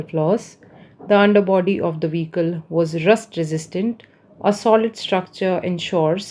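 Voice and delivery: slow, careful reading of example sentences. Shown as a demonstration. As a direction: read each example slowly and clearly for learners. Reads English example sentences. (उदाहरण वाक्य धीरे-धीरे पढ़ना)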